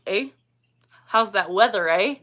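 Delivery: stereotype Canadian with a questioning "eh"; hammed-up Canadian small talk; mock Canadian. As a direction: play the TV Canadian, ending on "eh". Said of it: "But Canadians supposedly do".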